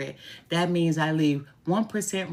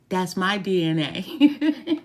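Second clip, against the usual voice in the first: laughing; 3 semitones higher, slower than usual. Real, not acted. Laughing proud remark.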